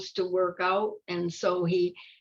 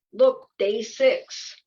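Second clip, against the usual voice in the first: slow, loud, eager announcement; proud and eager; 3 semitones higher, 4 dB louder, much slower than usual. Acted. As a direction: show off proudly. Proud caterpillar.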